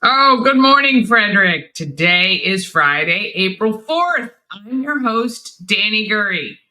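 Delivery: talking through a swollen fat lip. Real, not acted. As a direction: lips puffy, words a little thick. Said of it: "I have a fat lip".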